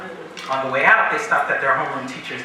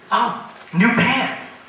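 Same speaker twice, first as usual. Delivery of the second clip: slow clueless reply; 6 semitones higher, much slower than usual. Retold or imitated. Clueless answer to pointing girl.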